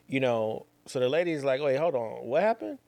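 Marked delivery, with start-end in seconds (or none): 1.6-2.8 surprised question. Retold or imitated. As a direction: jump way up in pitch on "What happened?", genuinely caught off guard. Lady on phone asks, surprised.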